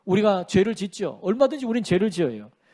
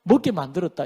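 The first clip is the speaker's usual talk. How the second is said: slow, higher start on an acted excuse; imitated blame-shifting; Adam making excuses; 3 semitones higher than usual. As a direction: shift the blame with drawn-out words. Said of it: "이렇게 핑계를 댄다는 거죠".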